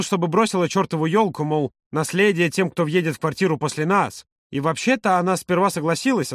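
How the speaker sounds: lively storyteller friend. Acted. Yura recalls his parents arguing over the tree, mildly animated. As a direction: retell the family squabble with mild amusement.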